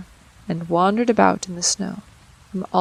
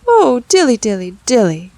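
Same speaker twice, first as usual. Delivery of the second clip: sighing; 2 semitones higher, 8 dB louder than usual. A narrator's reading. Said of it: "sighed Simpkin".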